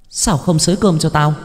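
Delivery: high, far-off ghost snapping for rice; a spirit shouting from nowhere; shrill ghostly yell. A narrator's reading. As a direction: ghost voice barking a demand. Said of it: "giọng nói lanh lảnh quát lên".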